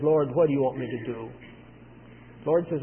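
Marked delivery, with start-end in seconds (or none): 0.0-1.3 lower, subdued surrender; broken. Retold or imitated. Saul yields to the Lord, mildly broken and submissive. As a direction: gently imitate a humbled man submitting. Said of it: "is broken".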